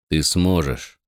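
lightly voiced low mentor; Kelsier's voice. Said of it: "произнёс голос Кельсера".

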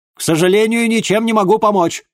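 high, loud, final refusal; father snaps no through the door. Acted. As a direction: shut him down loudly from behind the door.

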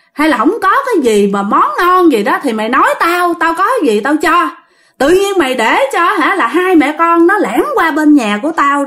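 scolding. Retold or imitated. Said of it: "Thì bà Tư mới la".

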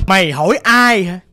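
angry ghost bullying the family; browbeating man's voice. Retold or imitated. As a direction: bellow the challenge, then settle into menace. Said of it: "Bà nạt nộ vậy đó nghe".

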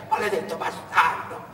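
high, loud cursing cry; a parched traveller screaming curses at the road; shouted curse. Acted. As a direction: curse them all at the top of the voice. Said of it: "cominciò a gridare".

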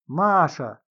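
shouted summons, rising; shouting. A narrator's reading. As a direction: yell Маша across the house. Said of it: "закричал Грушин".

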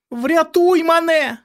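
put-on a terrified boy screaming for rescue; cry for help. A narrator's reading. Boy calling his protector, high terrified scream. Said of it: "закричав він".

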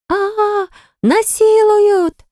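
high, drawn-out shriek of alarm; hammed-up scream. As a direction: wail it slowly, half joking. Heroine yells false alarm.

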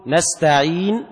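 نستعين said very slowly, lips rounding silently after the final n; stop with ishmam. Shown as a demonstration. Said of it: "الإشمام هو ضمك الشفتين".

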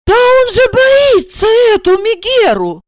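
high alarmed cry; frightened realization. A narrator's reading. Blonde panicking on realizing the husband fears his wife. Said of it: "прозрела... изрядно струхнув".

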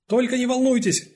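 high, loud calming shout. Acted. Detective shouts to calm the gunman. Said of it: "крикнула Францискович преступнику".

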